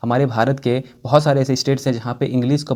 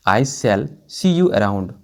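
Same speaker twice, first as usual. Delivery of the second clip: even slower, settling down at the end; slower repeat; 3 semitones lower, much slower than usual. Shown as a demonstration. Teacher repeating the sentence for students, slower and falling. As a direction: repeat "I shall see you around" slower still.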